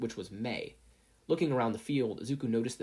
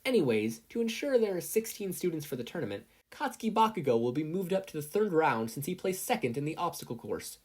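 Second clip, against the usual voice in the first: announcing; 6 semitones higher than usual. A narrator's reading. Midnight announcing.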